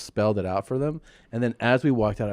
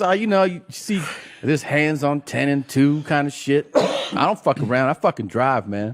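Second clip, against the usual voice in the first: driver impression; 4 semitones higher, 3 dB louder than usual. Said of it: "He goes".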